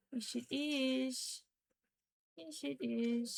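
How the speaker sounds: slow soothing coo. Real, not acted. Owner soothing her pet slowly.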